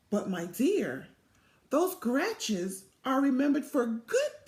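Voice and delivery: lively storybook read-aloud voice; animated picture-book narration; reading to children. A narrator's reading.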